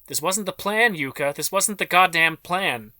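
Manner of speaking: furious high shout, words dragged out at the end; full of outrage. A narrator's reading. Susan James yelling at Yuka that this wasn't the plan, outraged shout. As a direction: scream it at Yuka, outraged and betrayed. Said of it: "That was Susan James, full of outrage".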